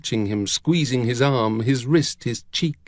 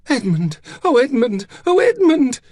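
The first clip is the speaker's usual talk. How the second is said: between a whimper and a cry, climbing higher; 14 semitones higher, 6 dB louder than usual. A narrator's reading. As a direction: build from anguish to a high, loud cry. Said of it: "something between a whimper and a cry".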